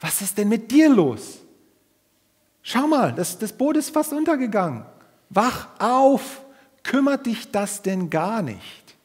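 desperate, high, loud shout of drowning men; frantic disciples shouting to wake Jesus; panicked cry for help. Retold or imitated. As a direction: yell it like the boat is sinking under you. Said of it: "und riefen".

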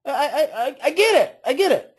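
calm understanding. Shown as a demonstration. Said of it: "how I am saying it is exactly how I would say it".

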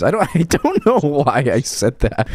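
high, loud, slow words through laughter; laughing. Real, not acted. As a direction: laugh at your own joke. Laughs at own remark.

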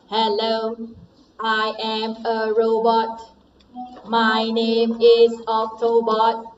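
flat, even robot voice. Shown as a demonstration. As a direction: speak like a toy robot, monotone. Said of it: "now you have to change your voice with your voice robot".

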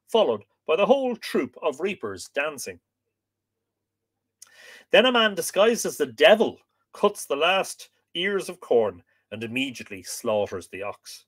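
measured, projected reading voice; book reading aloud. Acted. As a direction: read the old text out to listeners with clear phrasing. Reads the book aloud to viewers.

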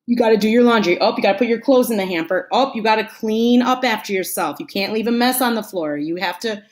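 lightly acted nagging; mild imitation of someone on your case; nagging reminders. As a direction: pile on one order after another. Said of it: "they keep telling you, reminding you".

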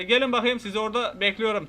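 usual speaking voice

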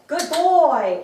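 high, loud, drawn-out praise; excited praise. Real, not acted. Trainer delighted that her dog gave a paw, excited praise. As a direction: swoop up and gush to the dog.

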